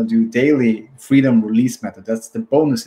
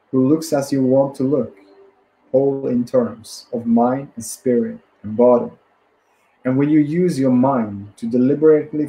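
measured book reading in phrases; deliberate self-help audiobook reading; read-aloud narration. Acted. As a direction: read the passage out steadily, pausing between phrases.

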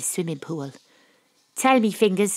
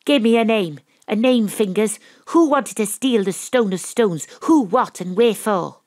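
firm demand; 3 semitones higher, 5 dB louder than usual. Acted. Detective presses the gangster hard.

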